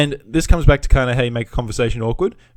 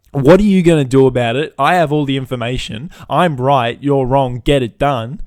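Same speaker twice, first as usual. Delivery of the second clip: cocky customer. Retold or imitated. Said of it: "when you go from".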